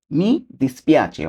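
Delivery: mi dispiace drawn out syllable by syllable; slow demo. Shown as a demonstration. Teacher modelling mi dispiace very slowly for viewers. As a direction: spell out mi dispiace very slowly for learners. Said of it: "এটাকে আমরা Italian ভাষা বলবো কি?".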